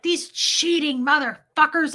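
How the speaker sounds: retold angry rant, pitched high; going off. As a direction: imitate a drunk wife ranting about cheaters. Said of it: "Like, she goes off".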